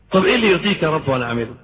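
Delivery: quick, imploring plea, lightly acted; tearful plea to God. Believer begs God to show what pleases Him, lightly tearful. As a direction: beg God in a mock-tearful rush. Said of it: "مفروض تبكي وتقول لربنا".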